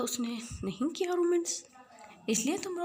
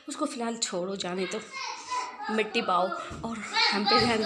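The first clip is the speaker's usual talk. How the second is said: playful; 5 dB louder than usual. Acted. Boy teasing, louder.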